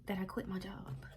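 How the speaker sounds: real whisper, soft and breath-only; hushed confession. Real, not acted. Vlogger admitting to viewers what mom doesn't know, whispered. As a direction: whisper it, scared to say it. Scared to tell her mom.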